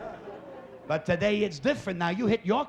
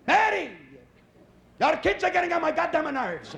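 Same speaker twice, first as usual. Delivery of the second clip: higher, exasperated complaining mother; 4 semitones higher than usual. Retold or imitated. Mother complaining to her son Eddie, higher exasperated nagging. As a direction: vent to your son like a fed-up mom. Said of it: "your mother looks you in the eye".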